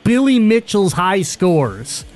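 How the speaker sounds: slow, drawn-out headline read; stretched-out, punchy topic intro; news announcer. Acted. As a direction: announce the top story with big emphasis.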